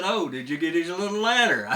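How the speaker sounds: can't keep a straight face; laughing through the line. Real, not acted. Retold shopkeeper, teller laughs.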